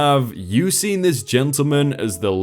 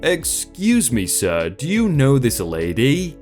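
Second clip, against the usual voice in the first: put-on storytelling in an Indian accent. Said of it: "I'd like to apologize for the accent".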